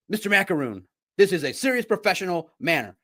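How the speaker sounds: a hint of a reproving lecturer; stern teacher. Voices scolding ethics teacher.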